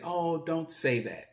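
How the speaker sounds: soft, slow, tender plea; nice loving voice. Retold or imitated. Mom hearing her son is going to prison, soft and loving. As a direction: gently ask him not to say it. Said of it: "in her nice, loving voice".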